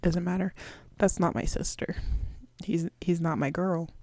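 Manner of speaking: breathy whispered aside, barely there. Real, not acted. Denying he is her girl, whispered. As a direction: drop to a whisper to disown him.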